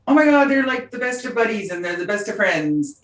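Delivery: gushing fans. Retold or imitated. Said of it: "fans who go".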